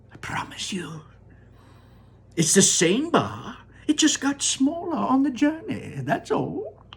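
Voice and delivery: Wonka crying out. Acted. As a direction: sing it out with delight.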